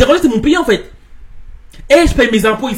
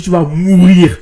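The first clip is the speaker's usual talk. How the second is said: mock yell; 4 semitones lower, 5 dB louder, slower than usual. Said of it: "Je me mets à gueuler".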